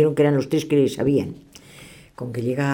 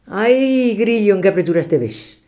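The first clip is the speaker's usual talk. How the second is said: high, louder wail of despair; a high, louder lament when trapped by the test; 7 semitones higher, 5 dB louder, slower than usual. Acted. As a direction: cry out to himself in mock despair. Diviner's lament when tested.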